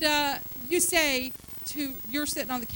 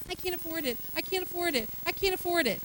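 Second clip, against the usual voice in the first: softer mopey repetition; mock whining; 4 semitones higher, 4 dB quieter, faster than usual. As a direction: whine it like a broken record. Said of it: "walking around all the time saying".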